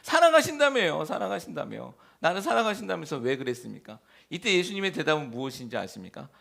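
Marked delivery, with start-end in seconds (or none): 0.0-4.0 mock wail. Mock complaint to God.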